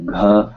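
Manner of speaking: "gha" with an aspirated, breath-released G; with air. Shown as a demonstration. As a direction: push a puff of air out after the g of "gha". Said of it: "has to have air".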